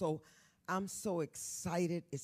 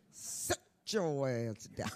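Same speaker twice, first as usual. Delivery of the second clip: mama's scolding; 3 semitones lower, slower than usual. Retold or imitated. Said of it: "Like my mama used to say".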